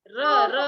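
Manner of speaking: र repeated, loud and sharp; stressed r sound. Shown as a demonstration. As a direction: hit the र sound hard. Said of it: "फ्रॉग".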